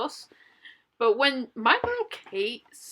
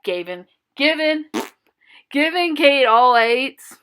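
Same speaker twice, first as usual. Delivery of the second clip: angry ranting; 7 dB louder than usual. Real, not acted. Ranting at judges.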